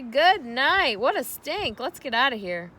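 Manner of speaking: high, loud disgusted yell; screaming. A narrator's reading. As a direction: cry out at the stink. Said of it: "screamed Avery".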